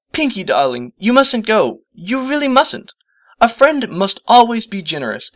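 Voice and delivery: lingering on words, gracious and grand; Rarity, refined. A narrator's reading.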